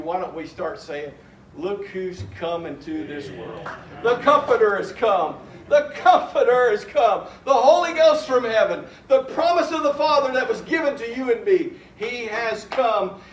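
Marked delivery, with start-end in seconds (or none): 1.6-13.2 a glad preacher's shout that the Comforter has come; joyful proclamation. Acted. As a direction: announce it with glad triumph.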